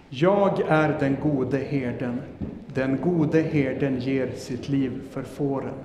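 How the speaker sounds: slow, deliberate reading aloud; slow scripture reading. Shown as a demonstration. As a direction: read each word slowly for the children. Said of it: "Vi läser den igen två gånger".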